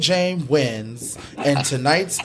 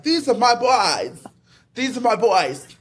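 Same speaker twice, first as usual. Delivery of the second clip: put-on higher, muddled Australian-or-mafia accent; bad Australian accent; 6 semitones higher than usual. Panelist voicing Bowie's loyalty to the boys, bad Australian accent. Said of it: "is this mafia or is this Australian accent".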